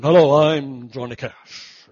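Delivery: a slow, lightly deepened country-singer greeting. Retold or imitated. A boy practising his hero's intro, lightly imitating a slow country singer. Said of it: "I would practice over and over".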